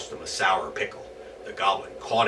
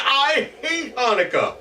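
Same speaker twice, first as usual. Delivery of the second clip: high, loud angry goblin; 6 dB louder than usual. Acted. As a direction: spit out his hatred. Goblin screaming at Herschel.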